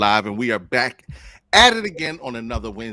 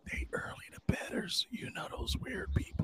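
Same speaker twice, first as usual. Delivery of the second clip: whispering; 18 dB quieter than usual. Real, not acted. Whispered aside about the guests.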